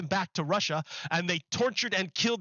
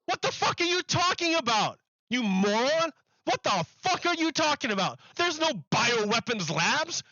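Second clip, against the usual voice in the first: angry outburst; 3 semitones higher than usual. Real, not acted. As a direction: snap back at the clip in outrage. Yelling back at the clip.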